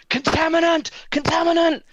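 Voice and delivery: high, loud shouted warning; shouting. Acted. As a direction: yell it out as an urgent alarm. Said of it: "I'm shouting".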